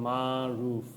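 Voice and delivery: slow syllables, MA and RUF drawn out as "মা, রুফ"; "মা, রুফ" split into two long syllables; vowels sounded out. Shown as a demonstration. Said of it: "এ উচ্চারণ হয়েছে".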